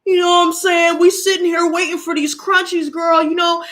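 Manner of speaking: high mock-diva cat complaint; sassy cats. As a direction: cats acting like they pay bills. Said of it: "they're looking at me like".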